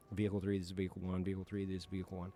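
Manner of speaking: lightly voiced calm team leader on the radio; calm radio call. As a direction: rattle it off like a cool-headed team leader. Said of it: "He's, like, calm, cool".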